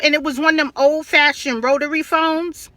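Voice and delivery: ordinary talk, nothing marked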